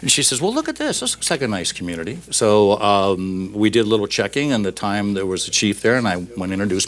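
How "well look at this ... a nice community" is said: speaker's wife. Retold or imitated. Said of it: "my wife has a habit".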